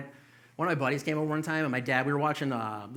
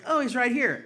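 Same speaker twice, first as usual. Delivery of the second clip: high, loud mock mom voice; mom's voice; 10 semitones higher, 6 dB louder than usual. Comic telling mom at the door, high mock voice. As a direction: chirp it like a carefree mom. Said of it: "And then she's like".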